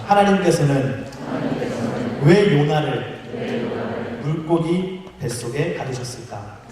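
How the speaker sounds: slow phrases with long pauses; feed it out phrase by phrase for repeating; lead-in for repeating. Shown as a demonstration. Preacher has the congregation repeat the question, slow and measured. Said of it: "우리 함께 따라합시다".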